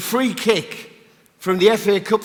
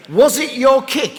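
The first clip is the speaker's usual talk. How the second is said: asked through real laughter, higher and louder; laughing as he quizzes the guest about the famous kick; laughing question; 6 semitones higher, 4 dB louder, slower than usual. Real, not acted. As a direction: giggle out the question in disbelief. Laughing while asking the guest.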